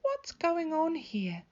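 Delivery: drawn-out, surprised grandmother; surprised Gran. A narrator's reading. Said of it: "said a voice".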